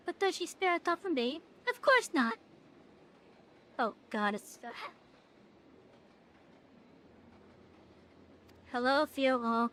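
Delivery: a hint of a sulky fairy, theatrically wounded; lightly voiced fairy. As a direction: mildly play the pouting fairy complaining of neglect. Reading fairy dialogue aloud.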